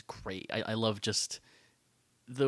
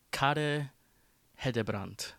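lightly put-on Swedish accent, slightly higher; 4 semitones higher, slower than usual. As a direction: try the name with a Swedish accent. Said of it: "my best attempt at a Swe-, at a, at a Swedish accent".

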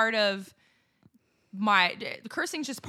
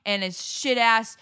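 angry rant; 5 dB louder than usual. Acted. Angry rant about a guy.

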